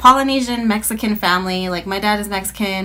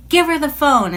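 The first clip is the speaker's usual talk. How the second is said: retold demand; 7 semitones higher, 4 dB louder than usual. Mom demanding the phone.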